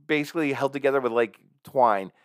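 high, loud incredulous exclaiming; shocked disbelief. Retold or imitated. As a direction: gasp at it in disbelief. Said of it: "I was like".

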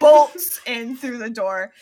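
booming, slow storyteller push; loud dramatic narration. A narrator's reading. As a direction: punch the entrance out slowly.

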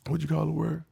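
searching for a word. Real, not acted. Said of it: "I forgot the word".

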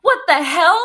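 high, stunned what the hell; real shock at the news; shocked disbelief. Real, not acted. Shocked friend reacting to story.

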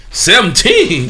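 slow, drawn-out disbelieving question; can't believe it, stretch it out; incredulous. Real, not acted. To the cohost who moved out at sixteen, stunned disbelief. Surprised at her young first crib.

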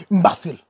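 imbecile said the Haitian way, im-ba-si-el; Haitian pronunciation. Shown as a demonstration. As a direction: imbecile with an open a and an extra syllable, im-ba-SI-el. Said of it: "Or as the Haitians say".

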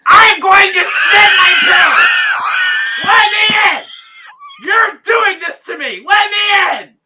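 high, loud, slow panicked shouting; hammed-up bathroom emergency wail; mock desperate yelling. Friend imitating Atlas banging on the door, mock shout. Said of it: "Just Atlas being like".

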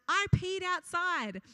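high, slow imitation of a little boy; lightly voiced proud toddler; child's announcement. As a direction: announce it like a three-year-old, drawn out. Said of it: "came inside and announced".

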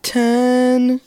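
counting reps while straining; strained counting, pitch climbing up; doing push ups. Real, not acted. Damn it.

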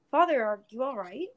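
anxious, gentle question; concerned. A narrator's reading. Son asking his crying father, concerned. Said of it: "he asked in concern".

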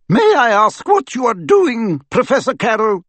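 measured and cutting, stern teacher; cool stern professor. Acted. McGonagall voiced in story.

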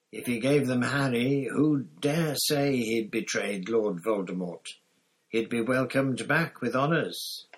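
lightly voiced gaunt prisoner, urgent; a hint of a haunted fugitive explaining; Sirius confiding. Sirius tells his story.

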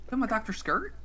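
whisper. Real, not acted. Repeating question in whisper.

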